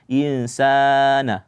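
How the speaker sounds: "insana" with the middle aa stretched too long; excessively lengthened "insana"; overlong vowel. Shown as a demonstration. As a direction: drag out the sa of "insana" beyond two beats. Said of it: "jangan berlebihan panjangnya".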